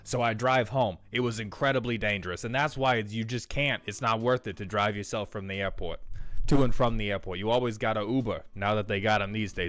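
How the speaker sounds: a hint of a boozy old salesman spinning his airport yarn; light old-timer voice telling a cautionary tale; old guy Howard. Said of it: "Howard's an old guy that talks like this".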